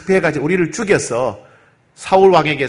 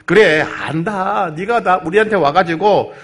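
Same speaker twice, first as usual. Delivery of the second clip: persuading; 3 semitones higher, slower than usual. Acted. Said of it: "다윗을 설득합니다".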